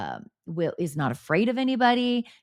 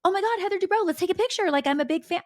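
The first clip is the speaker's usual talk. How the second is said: high-pitched mock fangirl squeal of words; pretend gushing fan; 11 semitones higher, faster than usual. Mocking fake fans who beg housewives for pictures, high gushing pretend fan. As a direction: gush like you're faking fandom. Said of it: "pretend that I'm a fan".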